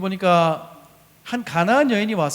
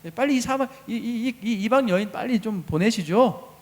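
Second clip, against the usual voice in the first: mildly irritated plea, pitched up a little; acted impatient request; annoyed disciples; 3 semitones higher than usual. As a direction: hurry him along as a bothered disciple. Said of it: "귀찮아서 빨리 보내라고 제자들이".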